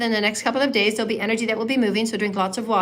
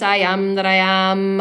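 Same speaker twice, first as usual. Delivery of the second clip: proud voice; 4 dB louder, slower than usual. Shown as a demonstration. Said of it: "say it with proud voice".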